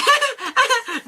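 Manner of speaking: high imitation laugh; mimicked laugh. Retelling the episode to a co-host, mimicked high laugh. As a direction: do a high-pitched character laugh. Acting out a character's taunting laugh.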